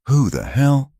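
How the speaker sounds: sudden high who-the-hell, caught off guard; startled. Acted. Deputy startled by a stranger, surprised high outburst. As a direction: jolt up in alarm.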